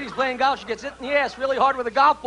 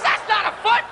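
nurse; 8 semitones higher than usual. Acted. Nurse quoted, pitched up.

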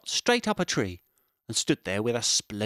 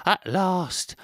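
high, louder squirrel voice; relieved squirrel; 9 semitones higher, 5 dB louder than usual. Acted. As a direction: gasp it out with relief. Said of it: "thought Squirrel".

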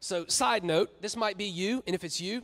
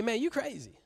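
casual refusal; 4 semitones higher than usual. Retold or imitated. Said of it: "A K A".

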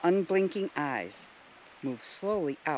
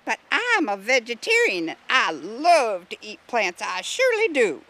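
put-on high, loud southern accent; southern drawl; 5 semitones higher, 6 dB louder than usual. A narrator's reading. Vegetarian snail proud of her diet, southern drawl. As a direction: stretch the vowels in a big southern drawl. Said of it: "drawled another voice with a distinct southern accent".

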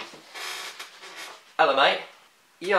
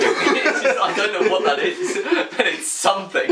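words bubbling with laughter, higher; laughing; 4 semitones higher than usual. Real, not acted. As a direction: giggle through it at yourself. Laughing at own failed accent.

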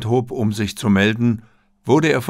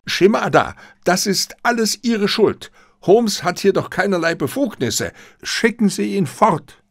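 cornered accusation; 9 semitones higher than usual. Acted. Cornered Katayama blames Shimada.

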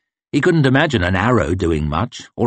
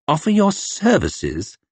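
mocking disbelief; 7 semitones higher than usual. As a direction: drag it out in scorn. Officer mocking the offer.

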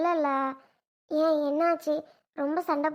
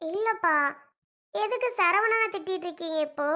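higher, upset pleading with her father; pleading protest; 4 semitones higher than usual. Acted. Daughter begs her father to stop scolding her husband, high upset plea. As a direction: beg him to stop, voice raised high.

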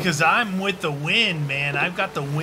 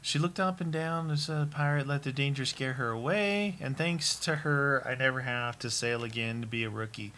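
dramatic reading of a diary; journal reading. Acted. Friend reads the pirate journal entry aloud, lightly dramatic.

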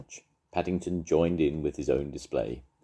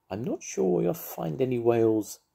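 tactful; 7 semitones higher than usual. A narrator's reading.

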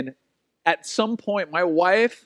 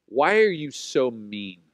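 put-on toddler question; 4 semitones lower, slower than usual. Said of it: "She goes".

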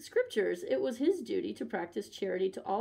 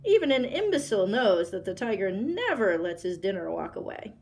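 louder, sneering tiger; scornful loud tiger; 3 dB louder than usual. Acted. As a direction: bellow the mockery. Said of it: "he roared loudly".

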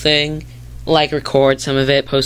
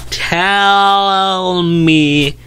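louder and higher, pressing the viewers; emphatic repeat; 4 semitones higher, 4 dB louder than usual. Real, not acted. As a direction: push it like an insistent demand.

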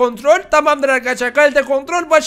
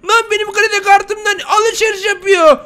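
slow, louder, much higher angry yell; furious outburst; 8 semitones higher, 5 dB louder than usual. Acted. Husband catching wife shopping with his card, enraged slow yell. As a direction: bellow at her for spending his money.

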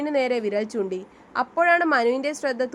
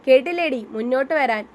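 raised voice; 4 dB louder than usual. Acted. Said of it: "Kiran ഒച്ച വെച്ചതും".

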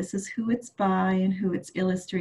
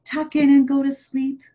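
grandma voice; 8 semitones higher than usual. Acted. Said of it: "And Grandma said".

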